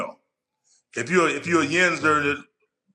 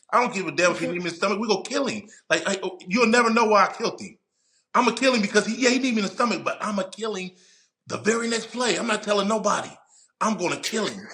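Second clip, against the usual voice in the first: heated rant; 6 semitones higher, faster than usual. Real, not acted. Ranting about killing quarterback.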